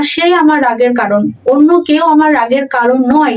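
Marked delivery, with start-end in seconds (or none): 0.0-1.3 সে lifted and pressed first; emphasis falls on সে; stress on সে. Shown as a demonstration. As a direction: hit the word সে. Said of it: "সেই আমার রাগের কারণ".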